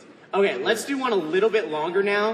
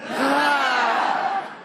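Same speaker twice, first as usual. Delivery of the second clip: angry shout; 3 semitones higher, 3 dB louder than usual. Shown as a demonstration. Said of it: "let that anger out at the end".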